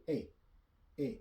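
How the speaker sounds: A said as a short, pure French "é"; French é sound. Shown as a demonstration. Teacher shows how the letter sounds, French é sound. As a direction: say "A" as closed "ay" with no glide. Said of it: "way of writing sounds A".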